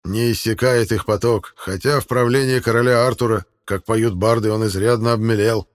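grave, ceremonial, steady; solemn. Acted. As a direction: declare it like a bard's lore. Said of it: "торжественно проговорил Арнвид".

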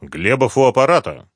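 put-on well-trained voice of an old party official; a hint of a formal boss. A narrator's reading. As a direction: answer the phone with authority. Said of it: "своим хорошо поставленным голосом".

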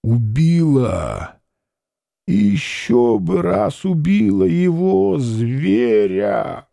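hoarse, muffled words of hatred; dying woman answers the tsar, hoarse and hateful. A narrator's reading. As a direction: spit it out, rasping and dull with hate. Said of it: "и хрипло, глухо, ненавистно".

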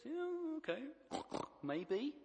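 high, loud piggy "Yeah, okay, maybe."; pig impression. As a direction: squeak it out like a cartoon pig. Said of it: "That, that was a pig impression".

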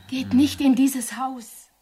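slow, insistent warning; drawn-out, urgent warning. Acted. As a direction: drag out the plea to keep away. Repeated, slower, more insistent warning.

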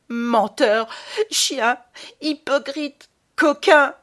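furious, high shouted insults, rising to a scream. A narrator's reading. Boy screaming insults at the baron, furious shout. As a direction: spit each insult out at full force. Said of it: "en hurlant".

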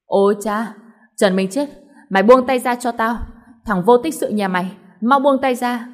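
a mother yelling at her son-in-law; angry scolding. Acted. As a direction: bark at him to let go. Mother struggling over the handbag.

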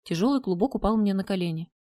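usual speaking voice

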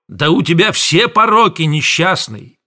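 high, loud, slowing threats; thundering. A narrator's reading. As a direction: boom out a warning. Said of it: "Аптекарь гремел".

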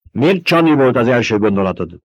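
Paul cuts Stilgar off sharply, sharp voice. Acted. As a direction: cut in sharply. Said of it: "éles hangon Paul".

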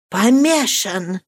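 mild frightened echo. Acted. Marianne echoing the terrible news: frightened. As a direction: echo it in alarm. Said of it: "вскричала испуганным голосом".

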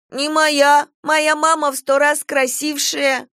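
put-on a child defending his mother's looks; indignant little boy. A narrator's reading. Child answers the teacher. (обиженный малыш возражает)

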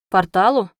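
one loud word thrown back; checking what was just heard; puzzled echo question. A narrator's reading. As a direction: query it, taken aback. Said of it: "переспросил Реус".

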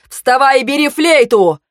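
high, shouted order; pressing shout to act now; urgent command. A narrator's reading. Urgent order while fleeing.

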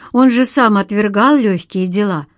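ordinary delivery

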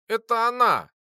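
put-on the boy on the verge of crying over Lora; almost crying. A narrator's reading. Boy to the cruel teacher, almost in tears. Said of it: "чуть не плача проговорил я".

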